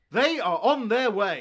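shouted, high-pitched narrator announcer voice. Narrating that the characters are on their way: yelling. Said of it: "Stop yelling!".

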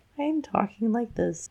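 tiny, high spidery voice. Discussing how the spiders talk, the speaker demonstrates: tiny high spidery voice. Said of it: "And I can't even actually talk that high".

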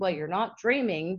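ordinary talk, nothing marked

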